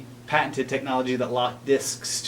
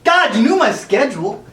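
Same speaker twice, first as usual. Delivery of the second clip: high, loud shush to cut him off; hammed-up high shush and fuss; sharp hush; 13 semitones higher, 8 dB louder, slower than usual. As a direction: shut him up loudly, then plead into the phone. Hushing cohost, fake phone call.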